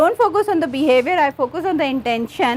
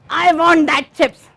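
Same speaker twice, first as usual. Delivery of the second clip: put-on slow, louder child's plea for chips; child demanding; 5 dB louder, slower than usual. Counsellor playing the child, begging the mother for chips, slow and louder. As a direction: drag it out like a child who wants chips. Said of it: "I'm your child".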